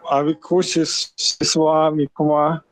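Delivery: muffled bad connection; underwater. Real, not acted. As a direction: sounds like in a submarine. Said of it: "Sounds like you're drowning".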